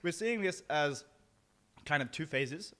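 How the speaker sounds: talking through a burning mouthful; mouth full. Real, not acted. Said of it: "very hard to talk with my mouth full on fire".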